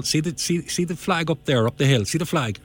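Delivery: high, eager pointing out of the flag. Retold or imitated. Lynch showing Ring the flag up the hill, high and eager. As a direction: steer a beginner's eye up the hill, voice lifted.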